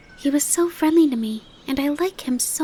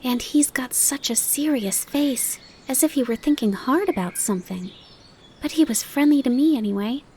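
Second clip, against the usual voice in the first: excited; 8 semitones higher than usual. Acted. Fawn gushes to his mother about the grasshopper, excited. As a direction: gush about the new friend. Bambi continues excited tale.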